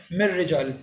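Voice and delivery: مر رجال with a doubled r and no n; noon dropped. Shown as a demonstration. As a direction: join مر رجال straight on the r. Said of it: "نون کی آواز ignore کرنی ہے". (مر رجال میں نون چھوڑ کر را ملا کر پڑھیں)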